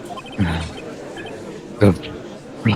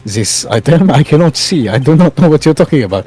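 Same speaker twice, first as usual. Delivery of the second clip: put-on French accent. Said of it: "your French accent kinda spilled into, uh, Edward's lines there".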